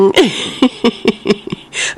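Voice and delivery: high breathless chuckle; airy laugh. Real, not acted. Host laughs at a running dog on video, airy.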